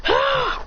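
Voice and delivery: short, high breathy mock yell; play-acted burst of effort; imitated cry. Fighter bringing down a meteor, high mock cry.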